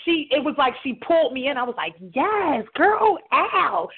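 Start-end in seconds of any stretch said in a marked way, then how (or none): 2.1-3.9 high whooping hype-up; excited cheering. Retold or imitated. Host cheering her friend's dancing, excited. Quotes herself cheering dancer.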